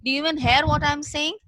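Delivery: shouting. Acted. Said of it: "the man shouted that".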